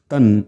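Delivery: तन् closed on a clear n; anusvara as n. Shown as a demonstration. Teacher explains the grammar, तन् said with final n. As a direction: end तन् with the tongue on n. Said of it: "ह्या अनुसाराचा उच्चार तन् असा झाला पाहिजे".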